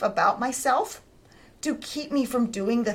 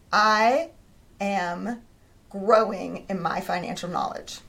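trying out a new thought; slower than usual. Shown as a demonstration. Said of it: "what was the next better thought".

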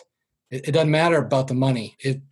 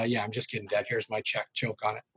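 mock defiant retort; 4 semitones lower, 9 dB quieter than usual. Fantasy retort to dad.

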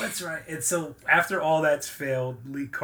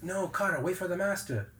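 higher-pitched student voice, put on; imitated warning; 5 semitones higher than usual. Podcaster retelling a warning to Carter at the dojo, imitated warning. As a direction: caution him, lightly acted.

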